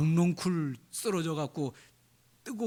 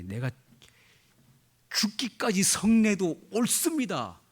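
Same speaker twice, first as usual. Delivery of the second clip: defiant Jonah; 4 semitones higher than usual. Retold or imitated. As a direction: talk back to God, stubborn and sure. Jonah defies God, quoted.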